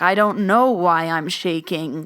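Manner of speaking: loud, slow imitation of a trembling voice; retold shaking voice. Telling how she answered while trembling, imitated shaky voice. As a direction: draw it out, imitating your own shaky words. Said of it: "my voice was shaking as well".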